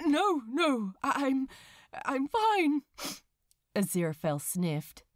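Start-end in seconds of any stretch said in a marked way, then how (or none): 0.0-2.8 shaken denial. Acted. Aziraphale shaken, fighting tears.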